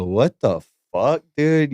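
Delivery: slow, drawn-out what the fuck, then dude jumps way up; stunned disbelief. Retold or imitated. New host hearing a DJ's crude line, stunned disbelief. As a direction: let the shock stretch the words out.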